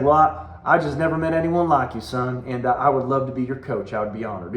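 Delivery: lightly imitated Southern coach; Southern accent. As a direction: retell it with a hint of Southern accent. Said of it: "he had a Southern accent".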